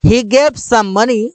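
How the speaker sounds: drawn-out, careful word by word; slow clear English. Shown as a demonstration. Teacher modelling the English line very slowly. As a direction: say it slowly so learners can copy. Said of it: "उसने कुछ पैसे दिया।".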